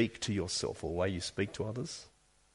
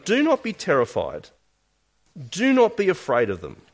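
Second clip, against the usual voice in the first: pleading; 5 semitones higher, 4 dB louder than usual. Retold or imitated. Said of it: "Moses pleads with him".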